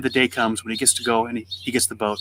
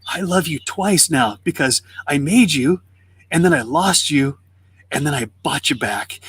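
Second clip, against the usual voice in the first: slow, heartfelt, deliberate phrases; tender declaration. Retold or imitated. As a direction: act out a boy's devotion, lingering on each phrase. Boy cherishes his recovered boat.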